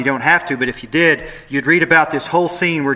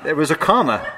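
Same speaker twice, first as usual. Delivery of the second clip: laughing; 3 semitones higher than usual. Shown as a demonstration. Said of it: "it's a pause for effect".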